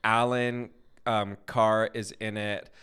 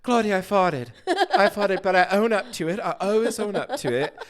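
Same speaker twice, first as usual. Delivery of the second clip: put-on much higher, louder old lady voice, laughing; old woman confessing; 9 semitones higher, 7 dB louder than usual. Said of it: "She goes".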